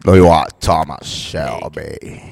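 low, slow Birmingham gangster voice; Peaky Blinders accent. Pretend. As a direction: Thomas Shelby growl, dragged out. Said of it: "Peaky Blinders".

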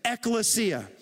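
"ekklesia" said slowly as ek-le-SEE-ah for all to repeat; Greek word ekklesia. Shown as a demonstration. Preacher teaching the church the word "ekklesia", slow and clear. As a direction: spell out "ekklesia" slowly, syllable by syllable. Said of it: "Everybody say it out loud with me".

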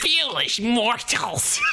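high, slow spooky ghost; slow theatrical villain menace. Acted. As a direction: drag it out like a wraith. Retrying the ghost line.

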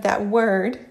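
"that word" set apart with teasing emphasis. A narrator's reading. Louis teases Harry over placement, stressing "that word". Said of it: "he puts emphasis on it".

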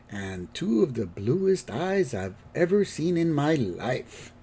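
put-on soft, slow admiring old-man line; smitten grandpa. Grandpa charmed by the old lady, soft and slow. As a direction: go soft and dreamy on the compliment. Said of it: "turns and sees the old lady".

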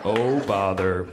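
slow, droopy donkey voice, all hope gone; unenthusiastic Eeyore. Acted. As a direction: drag the words out, utterly resigned. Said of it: "Eeyore responded unenthusiastically".

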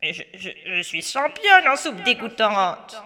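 witch voice. Acted. Witch boasting to Pierre.

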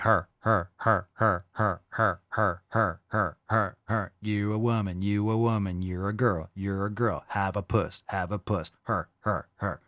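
lightly voiced taunting chant, low; mock kazoo drowning them out. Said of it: "I would just be like".

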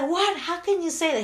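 high, loud disbelieving protest; a lightly voiced husband, appalled; husband appalled that his wife shrugged off the news; shocked husband. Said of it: "He's like".

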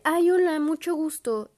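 high, loud mock-sweet hello; fake friendly greeting. Old schoolmates pretending not to know her, fake sweetness. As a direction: sweetly fake a first meeting. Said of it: "me decían así de".

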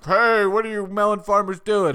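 loud barked challenge; barking at them. Retold or imitated. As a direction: bark it at intruders. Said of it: "just bark at them".

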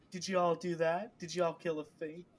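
high, loud mock-impressed questions; condescending lord. Mimicking Lord Luke mocking the heroes, high and loud. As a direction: sneer like a fop pretending to be impressed.

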